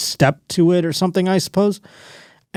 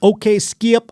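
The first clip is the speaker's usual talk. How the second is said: raised-pitch mock Southern talk-show voice; Shannon Sharpe impression; 9 semitones higher, slower than usual. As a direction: imitate him brushing off Skip. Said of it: "I try to do an impression of him".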